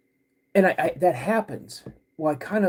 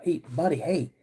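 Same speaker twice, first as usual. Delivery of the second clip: calming dad. Retold or imitated. Dad soothing his panicked son.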